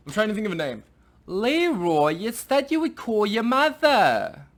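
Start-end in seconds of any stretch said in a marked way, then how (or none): 1.3-4.5 loud, high, drawn-out nagging impression; hammed-up old Jewish wife calling out. Wife nagging Leroy to call his mother, old Jewish couple impression. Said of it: "like an old Jewish couple".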